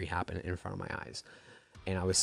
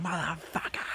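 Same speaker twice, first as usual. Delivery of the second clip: mock yell, much higher; retold scream; 9 semitones higher than usual. Fan retelling the wrestler's entrance with a mock yell. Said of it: "he's screaming".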